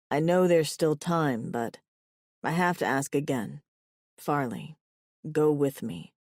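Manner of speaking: lightly voiced low, earnest suitor; pleading lover. A narrator's reading. Lover asks Farley to go with him, earnest low voice. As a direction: ask her gently, in a slightly deepened lover's voice.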